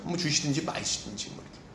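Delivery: low, soft, listless mock prayer; half-hearted indifference. Preacher imitating lukewarm believers praying to God, indifferent. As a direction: toss it off quietly as if not caring. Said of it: "어떻게 이렇게 밍숭맹숭합니까".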